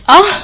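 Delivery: mock startled aah; a short scared cry at the mirror; frightened scream. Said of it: "डर कर चिल्लाती है". (डर कर हल्की सी चीख)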